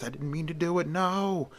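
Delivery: high, desperate wail of regret; anguished cry. A narrator's reading. Servant pleads after killing countess.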